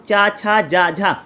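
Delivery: slow, careful चा छा जा झा with tongue on the palate; palatal syllables demo. Shown as a demonstration. Teacher showing palatal sounds to students, slow and careful. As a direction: stretch out चा छा जा झा one by one. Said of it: "जैसे इसमें मैं बोल रहा हूँ".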